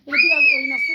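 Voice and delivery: very high, loud delighted squeal. Real, not acted. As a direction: squeal with joy at the kitten. Excited at kitten playing. (kedi oynarken sevinç çığlığı)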